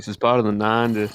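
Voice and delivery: mimicking a Southern accent slip; imitated Southern accent. Teasing co-host over the slip, imitated Southern accent. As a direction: lightly copy a Southern accent. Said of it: "talking like".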